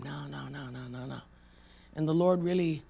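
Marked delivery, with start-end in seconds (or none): 0.0-1.2 timid refusal. Retold or imitated. Self with head down, refusing.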